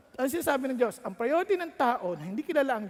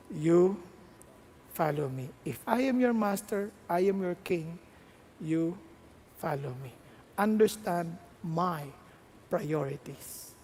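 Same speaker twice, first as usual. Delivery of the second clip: lightly lower, calm firm answer; voice of God; 5 semitones lower than usual. Acted. God calmly answering the anxious young pastor, a little lower.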